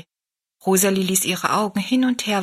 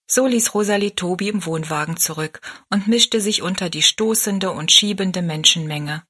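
usual speaking voice

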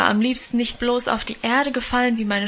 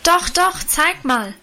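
higher, pushy calling out; eager calling; 7 semitones higher, slower than usual. A narrator's reading. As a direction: badger her to show it. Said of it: "rief nun aber auch schon Lina". (drängend rufend)

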